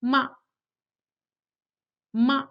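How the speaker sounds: "Ma" quick and light, very short; neutral tone. Shown as a demonstration. Teacher demonstrates the neutral tone, "Ma" quick and light. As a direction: say "Ma" briefly, without regard to pitch. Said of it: "is pronounced quickly and lightly".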